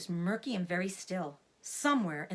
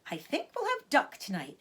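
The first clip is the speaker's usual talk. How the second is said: higher, gentle vixen voice; lightly voiced Missus Fox; 7 semitones higher, 3 dB louder than usual. Missus Fox asks her husband for duck, lightly voiced. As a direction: play the mother fox asking sweetly.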